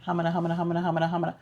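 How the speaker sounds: lightly imitated flustered sitcom stammer; low, run-together nonsense stutter; Ralph Cramden. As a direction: stammer it out as a tongue-tied mock babble. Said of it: "or Ralph Cramden".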